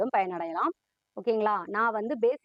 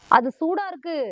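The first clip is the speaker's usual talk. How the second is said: loud, higher warning; sharp warning; 6 semitones higher, 8 dB louder than usual. Acted. Parent loudly warning a child about something hot.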